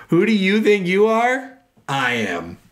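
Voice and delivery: shouted high and slow at first, dropping on I am; hammed-up bowler yelling down the crowd; mock yell. Retelling a bowler's yell at the crowd, hammed-up shout.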